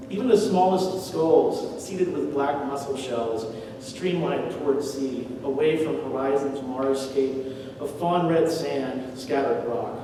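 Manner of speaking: slow, deliberate verse reading; unhurried recital, easing down to the last words; poetry reading. Acted. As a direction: read each image out slowly, line by line. Reads poem lines aloud.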